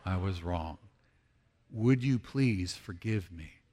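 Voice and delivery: low, deliberate confession; convincing apology. Shown as a demonstration. Preacher coaching congregation to confess with conviction, humbly. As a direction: own it humbly, softly. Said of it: "say it with some convincingness".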